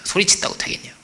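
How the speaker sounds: lightly voiced devil, taunting with rhetorical questions; accusing devil. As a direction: press doubts on the listener like an accuser. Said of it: "별 얘기를 마귀가 할 것입니다".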